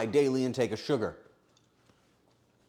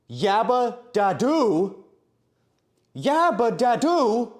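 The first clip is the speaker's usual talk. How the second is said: drawn-out announcing; 8 semitones higher, 6 dB louder, slower than usual. Acted. Reading a funny username aloud.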